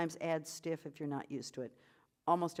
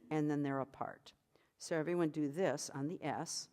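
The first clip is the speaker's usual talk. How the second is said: whisper. Real, not acted. Whispered lines.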